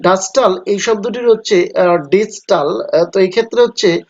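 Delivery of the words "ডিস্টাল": ডিস্টাল slow, unstressed ডি and stressed স্টাল; stress on STAL. Shown as a demonstration. Teacher breaking the word into syllables, slow with স্টাল stressed. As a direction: drag out ডিস্টাল, hitting স্টাল. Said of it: "ডি শব্দটি unstress".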